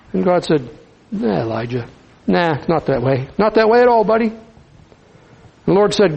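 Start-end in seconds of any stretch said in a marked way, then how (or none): 1.1-4.3 gentle correction. Acted. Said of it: "Gentle, loving God".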